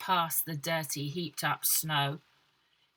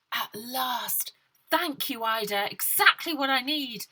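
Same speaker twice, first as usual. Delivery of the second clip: put-on pleased young woman; 5 semitones higher, 3 dB louder than usual. Miss Lovelock's voice.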